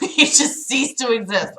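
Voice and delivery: flat robot voice. Shown as a demonstration. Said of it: "I'm gonna robot voice".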